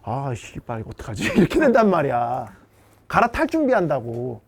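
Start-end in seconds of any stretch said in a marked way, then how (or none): 0.0-1.2 very low, hushed cursing aside; privately fret, voice dropped right down; behind-the-back worry. Acted. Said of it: "하고 뒤로는". (뒤에서 낮게 혼잣말하듯)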